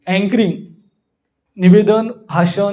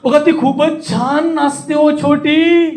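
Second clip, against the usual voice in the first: high and slow, stretching "छान" and "छोटी"; drawn-out exclamation; 6 semitones higher, slower than usual. Shown as a demonstration. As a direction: gush it, holding "छान" and "छोटी" long. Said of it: "सगळे tone वापरतो".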